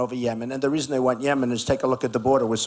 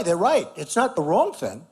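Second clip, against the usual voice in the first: ordinary talk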